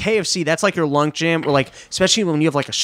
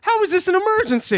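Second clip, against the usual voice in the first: much higher, put-on British disbelief; exasperated mock British cop; 13 semitones higher than usual. The cop questions the emergency in a higher, put-on British accent. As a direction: push back, pitched up. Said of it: "British accent".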